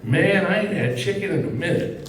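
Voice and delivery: light impression of an old lady, laughing; a hint of an eighty-year-old woman's voice; imitating old woman. Son mimicked as an old woman, lightly voiced. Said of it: "sounds like, an eighty-year-old black woman".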